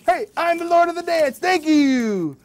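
high, proud show-off puppet dog. Acted. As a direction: strut it like the star of the show. Dog shows off dancing.

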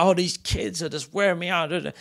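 high, worn-out parent sigh; weary parent. Retold or imitated. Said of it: "We're like".

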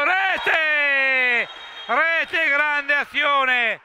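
breathless Italian goal commentary; goal call. Real, not acted. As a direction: shout the goal. Goal called out.

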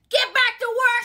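tag. Retold or imitated. Acted order from staff.

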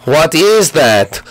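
deep slow ghost; eerie ghost voice. Acted. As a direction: drag it out low and spooky. Ghost baby voice.

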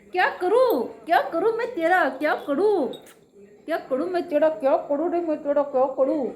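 playful "what do I do with you"; mock exasperation. Owner teasing her pet in mock despair.

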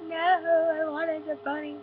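high, drawn-out mock wail; mock sad. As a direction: act out a disappointed kid, slow and high. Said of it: "I was really sad".

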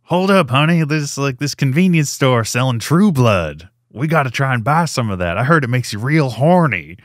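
mock Southern redneck twang; redneck Southern accent. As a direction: play a cartoon redneck with a thick Southern accent. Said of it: "rednecks driving down the road".

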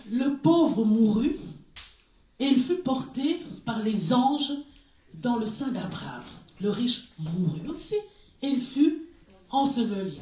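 reading scripture slowly to the class; lecture biblique. Acted. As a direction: read the verse with weight. (lecture posée d'un verset)

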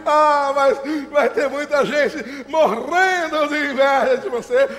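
slow, drawn-out gloating; gloating pride. Acted. Proud father boasting to his son, gloating. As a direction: relish it, stretching the words.

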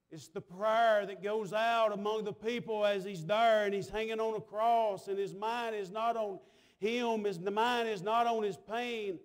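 steady, driving pulpit delivery; impassioned sermon cadence; preaching. Real, not acted. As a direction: preach it out to the congregation. Preaches with force.

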